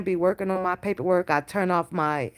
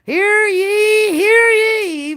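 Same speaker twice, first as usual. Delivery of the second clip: much higher and louder, booming hear ye like a town crier; microphone announcer voice; 14 semitones higher, 10 dB louder, much slower than usual. Retold or imitated. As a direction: imitate a hammed-up MC calling over the mic. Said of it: "Rated R got that microphone voice".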